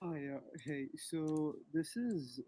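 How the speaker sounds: barely audible. Real, not acted. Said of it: "your voice is very faint".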